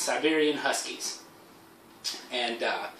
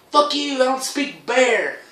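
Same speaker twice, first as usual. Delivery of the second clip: much higher, slow, cocky retort; mock defiance; 11 semitones higher, 4 dB louder, slower than usual. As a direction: fire it back, high and drawn out. Defiant reply to bear.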